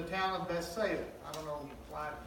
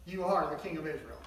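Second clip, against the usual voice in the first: exclaimed declaration; 5 dB louder than usual. Acted. Nathanael hailing Jesus as Son of God, exclaiming. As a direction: proclaim it with awe. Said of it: "declared, exclamation mark".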